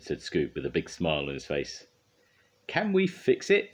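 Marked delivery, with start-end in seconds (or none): 2.7-3.7 high, slow, loud question; rally the team with a catchphrase; rallying call. A narrator's reading.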